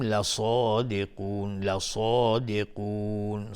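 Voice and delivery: slow لصادقون with a thick, heavy ص; heavy sad. Shown as a demonstration. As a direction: dwell on لصادقون, making the ص full and heavy.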